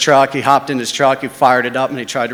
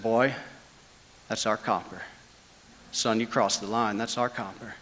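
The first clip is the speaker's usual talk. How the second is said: menacing threat; 2 semitones lower, 10 dB quieter than usual. Retold or imitated. Thug warning Jeff off their copper, quietly menacing. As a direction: lean in and threaten him softly.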